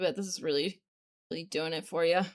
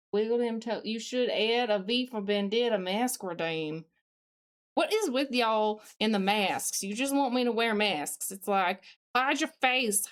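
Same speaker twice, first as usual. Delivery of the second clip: put-on Southern accent. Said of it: "Australian mixed with a Southern accent".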